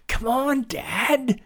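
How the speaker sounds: put-on high, impatient boyish call. A narrator's reading. Boy to his slow-walking father, calling out. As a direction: call back over a distance. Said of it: "Billy called".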